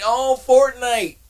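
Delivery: Fortnite drawn out loud and high in mock scorn; a loud, slow, high-pitched jeer at the rival game. Real, not acted. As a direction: sneer it out slowly like a joke name. Mocking the rival console.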